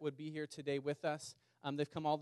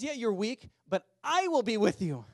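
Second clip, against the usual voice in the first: higher, louder, booming assurance; voice of God; 6 semitones higher, 8 dB louder than usual. Acted. God answering weak Gideon, booming and much louder. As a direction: declare it as God, firm and sure.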